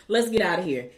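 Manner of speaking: dropping to a matter-of-fact quote; straight-faced. Retold or imitated. Toddler heading out past the nurses, straight-faced. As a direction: quote the child straight, without excitement. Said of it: "she just said it straight like that".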